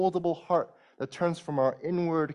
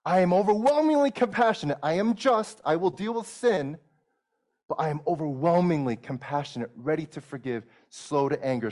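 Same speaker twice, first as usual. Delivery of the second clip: voicing God; 3 semitones higher, 4 dB louder than usual. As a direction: declare it as God, with weight. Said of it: "that's how God reveals himself".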